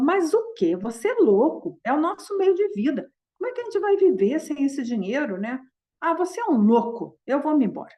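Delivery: wife scolding her husband for giving away their living; angry wife. Retold or imitated. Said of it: "mas tava muito brava".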